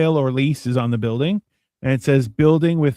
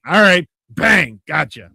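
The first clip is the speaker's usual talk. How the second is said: mock Mike Myers; 4 dB louder, slower than usual. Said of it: "Who's like".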